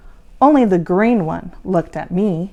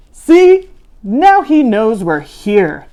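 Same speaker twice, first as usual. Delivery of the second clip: sighing; 9 dB louder, slower than usual. A narrator's reading. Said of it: "the voice sighed".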